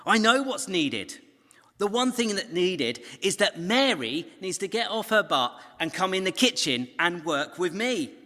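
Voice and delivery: high, loud, huffy inner rant; irritated sister muttering about Mary; indignant thoughts. Acted. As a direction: grumble like a fed-up sister. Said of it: "thinks Martha".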